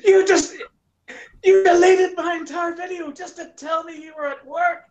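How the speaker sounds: put-on shouting at girlfriend for deleting the video, furious. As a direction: blow up at her for deleting it. Retold outburst at girlfriend.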